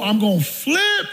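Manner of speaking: slow, drawn-out build to FLIP; building threat. Retold or imitated. Preacher winding himself up in his mind, slow building threat. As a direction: stretch out FLIP as tension builds.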